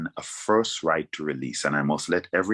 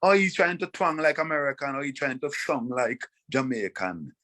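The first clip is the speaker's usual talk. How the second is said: mocking judges; 7 semitones higher than usual. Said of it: "people judge me by that".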